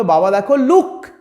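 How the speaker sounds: lightly acted excited child, stretching the English; child calling to father. Child shows father a barking dog, lightly acted excitement. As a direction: point it out to Dad, drawing the words out. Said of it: "তখন তুমি বাবাকে কি বলবে?".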